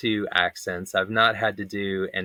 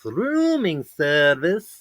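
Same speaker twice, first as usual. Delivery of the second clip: "rooming service" drawn out slow and high, the O's stretched; Middle Eastern accent; 7 semitones higher, much slower than usual. Shown as a demonstration. Hotel bellboy announcing room service in a hammed-up Middle Eastern accent. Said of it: "accent my O's very over the top".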